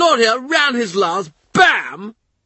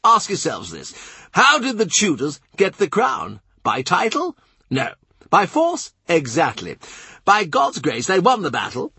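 much higher, hectoring and insistent; Norfolk demanding; 9 semitones higher than usual. A narrator's reading. Norfolk lecturing the courtiers on succession, demanding and high. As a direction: hammer each question at them. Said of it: "Norfolk demands".

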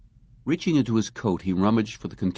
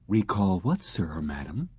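respectful robot; 3 dB quieter than usual. Acted. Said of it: "inquired respectfully".

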